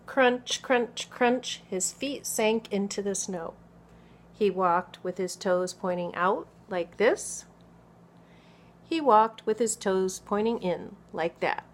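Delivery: put-on expressive picture-book narration for small children; story read-aloud. A narrator's reading. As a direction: read clearly and with lively emphasis to children.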